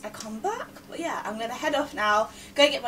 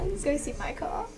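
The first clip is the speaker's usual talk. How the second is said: usual speaking voice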